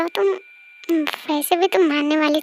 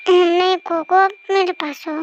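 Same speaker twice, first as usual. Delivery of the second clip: put-on clingy girlfriend. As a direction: plead like a sleepy sulking girl.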